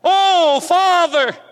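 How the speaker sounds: put-on girl calling her father loudly from bed; loud child's call. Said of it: "spoke out loudly".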